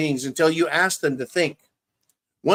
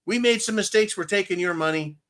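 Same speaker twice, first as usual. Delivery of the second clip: sarcastic imitation of bureaucrats, pitched up; mock official; 4 semitones higher than usual. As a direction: parody a smug official admitting mistakes. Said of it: "They'll say".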